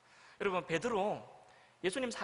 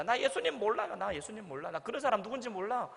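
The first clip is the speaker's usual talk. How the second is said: frantic denial; 2 semitones higher than usual. Retold or imitated. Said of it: "정신없이 외쳤던 거죠".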